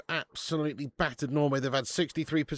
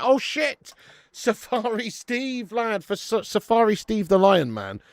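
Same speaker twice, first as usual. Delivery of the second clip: excited hype; 8 semitones higher, 5 dB louder, slower than usual. Real, not acted. Hyping the super chat donor.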